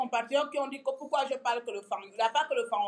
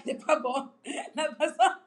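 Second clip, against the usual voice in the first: real laughter breaking into the sung line; laughing; 4 semitones higher than usual. Real, not acted. Amused by the song she sings, laughing. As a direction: try to sing on through a laugh.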